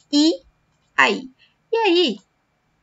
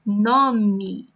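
whispered word; 3 semitones lower than usual. Shown as a demonstration. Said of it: "teacher repeats word softly".

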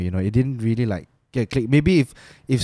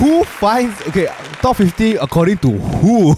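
incredulous; 8 semitones higher, 3 dB louder, slower than usual. Real, not acted. Skeptical about ranking.

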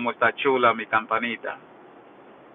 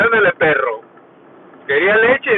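mocking Carla; 6 semitones higher, 4 dB louder than usual. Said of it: "le decía".

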